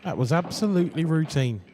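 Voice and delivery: can't believe what he just saw; stunned disbelief. Real, not acted. Commentator stunned by a miss.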